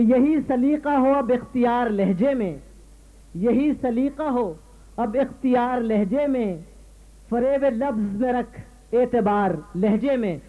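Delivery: measured Urdu couplet recital; declaimed mushaira verse; poetry recitation. Acted. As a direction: recite verse to an audience, pausing between phrases. Host recites another couplet.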